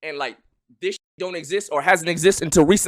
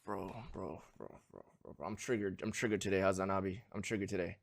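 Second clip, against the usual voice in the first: mock whine; 9 semitones lower, 17 dB quieter than usual. Mock whimper to caller.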